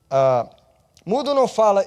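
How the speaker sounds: normal talking voice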